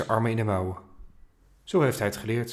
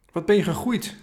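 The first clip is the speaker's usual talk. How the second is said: higher, admiring praise; proud grandpa; 7 semitones higher, 3 dB louder than usual. A narrator's reading. Grandpa praises grandson, proud and warm. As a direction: beam with pride at the boy. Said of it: "zegt opa trots".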